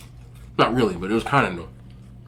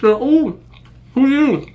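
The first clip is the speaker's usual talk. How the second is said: mock high-pitched girl; squeaky girlish question; 12 semitones higher, 3 dB louder, much slower than usual. Girl on the phone meeting him, high mock voice.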